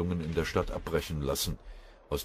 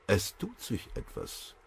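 langsam geflüstert, wichtig tuend; raunend, als wüsste er ein Geheimnis; wichtigtuerisch flüsternd; 6 semitones higher, 4 dB quieter, slower than usual. A narrator's reading. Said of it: "flüsterte Bremke wichtigtuerisch". (Bremke flüstert den Kameraden wichtigtuerisch zu, geflüstert)

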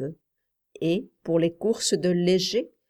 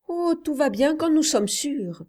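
put-on high-pitched child's voice; confident boy Paul; 8 semitones higher than usual. Boy explaining his bets to his uncle, confident. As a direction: answer as an assured little boy, pitched high.

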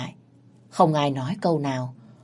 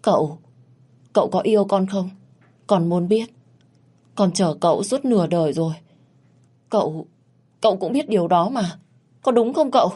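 a touch of quaver, higher, pleading to the man she loves; trembling voice; 3 semitones higher than usual. Acted. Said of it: "Giọng của Duyên run rẩy".

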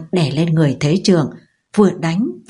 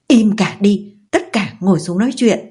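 loud command; 3 semitones higher than usual. Acted. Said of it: "đập tay xuống bàn nói lớn".

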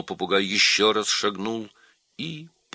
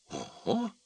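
high, soft squeaked gasp of dismay; aghast little monkey voice; horrified monkey; 13 semitones higher, 7 dB quieter than usual. A narrator's reading. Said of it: "ужаснулась мартышка".

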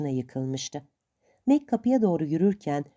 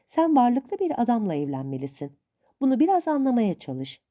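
hint of a stern old aunt; 3 semitones higher than usual. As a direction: lightly play the suspicious old aunt.

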